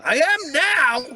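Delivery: high, slow drawn-out answer; slow high resigned line; deadpan reply. Pretend. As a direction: stretch it out, defeated. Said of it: "I'm like".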